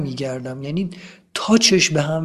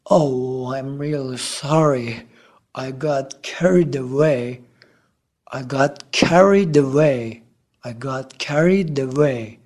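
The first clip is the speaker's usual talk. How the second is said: apologetic; 3 semitones lower, 3 dB quieter, much slower than usual. Acted. Fan apologizes after being calmed.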